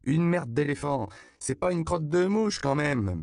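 put-on high, loud childish chatter; babbling child. A narrator's reading. Little girl mocks the circus man, babbling. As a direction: rattle it off like an excited little girl. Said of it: "babillait Loupé".

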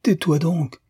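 restrained angry exclamation, not shouted; crying out. A narrator's reading. Frédéric raises his fist at his teasing friend, crying out. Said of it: "s'écria Frédéric en levant le poing".

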